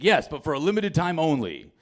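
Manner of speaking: imitated TV pitchman answer; mock ad voice with swooping emphasis; infomercial dad. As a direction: deliver it as a sales offer. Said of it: "my dad talks like this now".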